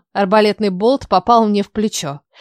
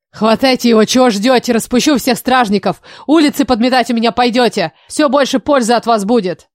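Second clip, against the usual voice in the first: raised voice barking at the guards; furious king dressing down his guards; angry orders. Acted.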